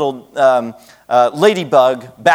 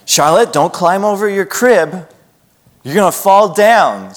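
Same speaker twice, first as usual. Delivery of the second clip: put-on talking to a toddler; 2 semitones higher than usual. Shown as a demonstration. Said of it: "Gotta talk to her like that".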